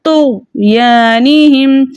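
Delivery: drawn-out तो यानी हिम; slow model reading; slow recitation demo. Shown as a demonstration. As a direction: stretch each syllable slowly. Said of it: "इसलिए हमने पढ़ा फ़ी".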